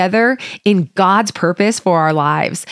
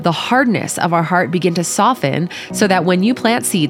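prayer. Acted. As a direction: pray gently and humbly to God. Leads the opening prayer.

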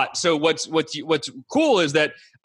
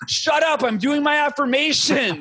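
higher, mock-irritated shushing of your own doubts; annoyed snap back; 7 semitones higher than usual. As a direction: brush off the inner voice, pitched up and testy. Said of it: "And you're like".

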